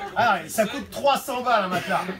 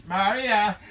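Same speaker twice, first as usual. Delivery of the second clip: Australian pickup line; slower than usual. Acted. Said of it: "James, l'Australien".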